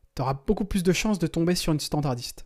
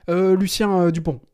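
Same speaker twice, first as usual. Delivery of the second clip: "Lucien" then a pause and "Dupont" tossed in late; casual pause before the surname; afterthought surname; 2 semitones higher, 4 dB louder than usual. Shown as a demonstration. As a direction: add "Dupont" as if you just remembered it. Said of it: "Du type, ah, j'ai oublié son nom de famille".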